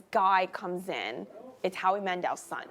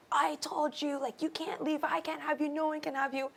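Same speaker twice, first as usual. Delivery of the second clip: menacing whisper; 7 semitones higher, 6 dB quieter than usual. Retold or imitated. Possessive boyfriend menacing her.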